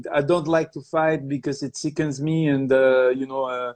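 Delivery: imitating a Montreal French accent; halting English with a French-Canadian accent. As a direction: put on a Québécois accent, feeling for the words. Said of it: "I'm trying to get the accent again".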